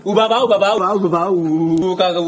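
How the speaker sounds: put-on baby babbling and chanting ka ka ka; baby babble.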